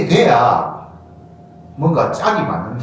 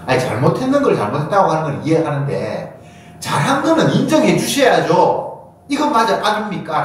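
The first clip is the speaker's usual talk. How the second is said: acted indignation, climbing high in pitch; indignant protest; 4 semitones higher than usual. Preacher voices people objecting that good deeds deserve credit, indignant. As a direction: protest as if unfairly judged, pitch rising. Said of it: "라고 화를 내는 거예요".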